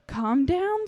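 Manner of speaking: calm down said soothingly, gently rising; mother gently soothes raging daughter with calm down; calm soothing plea. Acted. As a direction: gently coax her with calm down. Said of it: "she calmly says".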